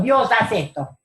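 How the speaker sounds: mildly insistent mock demand. Preacher showing how not to pray to God, mildly demanding. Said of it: "No está exigiéndole a Dios".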